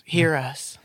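whispered ghost imitation; spooky EVP-style whisper; ghostly whisper. Guessing what ghost whispered.

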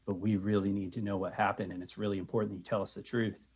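gentle reassuring. Pretend. Gentle adults coaxing a frightened girl.

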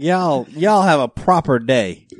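put-on slow British-Southern mashup accent; British Southern twang. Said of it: "like, a British Southern twang".

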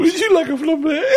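put-on high, silly French-waiter accent; mock French accent. Comic mocks his botched accent as French, mock French accent. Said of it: "That's French".

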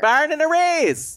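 put-on Minnesotan accent. Hammed Minnesotan phrase.

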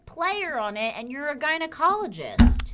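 high, loud disbelief; incredulous. Real, not acted. Host baffled by the doctor's plate, incredulous. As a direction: demand an answer, pitched right up.

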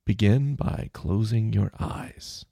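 calm the listener down, slowly; meditation voice. Shown as a demonstration. Podcaster demoing his meditation voice. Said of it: "my meditation voice".

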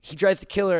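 ordinary talk

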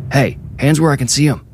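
shouting TV cop. A narrator's reading. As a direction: order them like a television cop, restrained shout. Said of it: "shouted just like a television cop".

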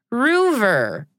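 "Roover" drawn out with a long oo, a touch of mock Australian accent; playful Aussie pronunciation. Host reading the fourth name to listeners, in mock Australian "Roover". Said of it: "pretend that I'm reading it as an Australian".

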